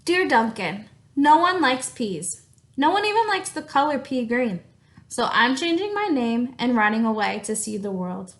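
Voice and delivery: reading a letter aloud in a lively voice; story reading. Acted. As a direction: read the crayon's letter expressively to the class. Teacher reads crayon letter aloud.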